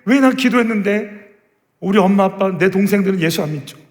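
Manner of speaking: high, loud, pleading questions; frustrated plea to God. Acted. Believer asking God why His promises fail, frustrated pleading. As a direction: cry out your frustration to heaven. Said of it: "그 답답함".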